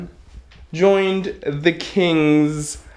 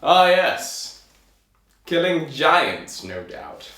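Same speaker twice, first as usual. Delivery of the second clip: knowing king; 2 semitones higher, slower than usual. Acted. King assuming the tailor kills giants, knowing kingly voice. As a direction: savour it like a king who knows better.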